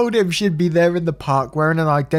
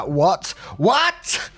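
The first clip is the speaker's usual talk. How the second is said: confused surprise; 4 semitones higher than usual. Retold or imitated. He asks what's wrong.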